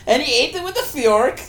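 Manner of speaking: high, laughing words. Real, not acted. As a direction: laugh through it.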